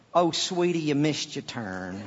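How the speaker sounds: a hint of sweet Southern motherliness; sweet Southern mama. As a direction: gently break it to them, dropping away at the end. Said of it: "Like a sweet mama type voice".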